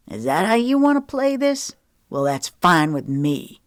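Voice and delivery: a touch of a sneering man; scornful parting shot; mock sneer. Fired man sneering back at his boss, mildly scornful. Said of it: "he sneered".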